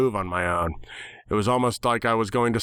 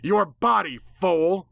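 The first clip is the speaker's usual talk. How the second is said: high, sneering spit of contempt; spat angrily; 7 semitones higher, slower than usual. Acted. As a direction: nightmare spits at the narrator, angry and high. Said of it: "it spat angrily".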